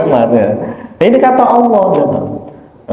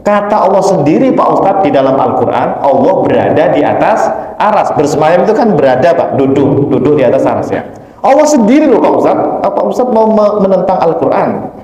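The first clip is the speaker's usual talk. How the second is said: retold angry challenge; 2 semitones higher than usual. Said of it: "Saya digituin".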